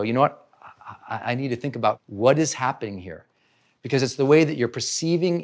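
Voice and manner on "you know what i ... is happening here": calm pause. Shown as a demonstration. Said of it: "take a pause and go".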